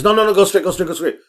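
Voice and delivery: high-pitched backseat correction; imitated urgent directions. Passenger urgently correcting the turn.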